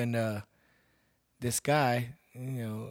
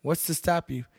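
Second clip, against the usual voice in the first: raised, taunting challenge; defiant retold challenge; 5 semitones higher, 4 dB louder than usual. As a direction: dare him to act now, louder. Retold challenge to threatening guy.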